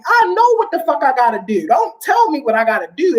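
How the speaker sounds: retorting to someone who lectures you; indignant retort. Retold or imitated. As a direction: fire back at the know-it-all. Snapping back at unwanted advice.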